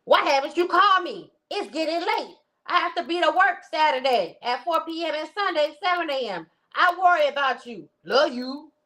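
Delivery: high-pitched, anxious girlfriend impression; hammed-up worried woman's voice. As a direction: play her fretting over him, pitched well up. Reads Sonia's worried text.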